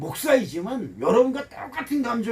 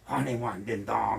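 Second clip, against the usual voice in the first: quiet self-warning; 8 semitones lower, 7 dB quieter than usual. Retold or imitated. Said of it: "화내기 전에".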